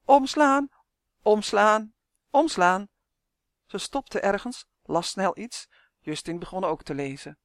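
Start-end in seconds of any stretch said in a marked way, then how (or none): 0.0-2.9 loud, raised, insistent orders; stubborn calling out. A narrator's reading. Malien stubbornly stares into the book, calling loudly. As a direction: keep calling the command doggedly. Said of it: "terwijl ze weer riep".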